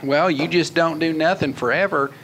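lightly voiced folksy president impression; a hint of a drawling Texan politician; George W. Bush. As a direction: play a president explaining, lightly put on. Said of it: "George W. Bush mode".

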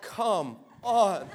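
drawn-out, deflated groan of disbelief; unimpressed, dragged-out plea; weary exasperation. Retold or imitated. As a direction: imitate being fed up, slow and low-key. Retold weary reaction to demon.

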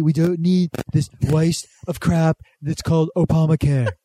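lightly done Trump rally voice; Trump impression. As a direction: boast like a blustering president. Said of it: "You turn British at the end".

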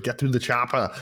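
mock Austrian action-hero accent; Schwarzenegger. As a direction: do a comic Austrian-accented movie catchphrase. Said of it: "always slide into Schwarzenegger at some point".

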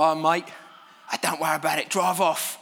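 put-on light London builder's accent, casually reassuring; mates-down-the-site London accent, easygoing; a hint of a London builder's accent. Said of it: "I'm only doing the accent".

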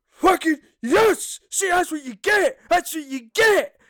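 high, slow triumphant crow of a sore winner; gloating winner. Retold or imitated. The kid mocking the guest he beat, high gloating crow. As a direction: rub it in like a smug kid. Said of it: "he went".

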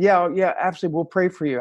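quick brush-off. Retold or imitated. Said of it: "instead of saying".

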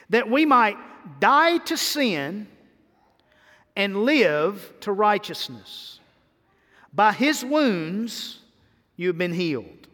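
slow, deliberate reading of scripture. Real, not acted. Preacher reading the verse to the congregation, slow scripture reading. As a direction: read the verse out with long, weighty pauses.

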